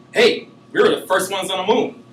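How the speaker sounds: hammed-up eager exclamation; excited exclaim. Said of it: "the American excitedly exclaimed".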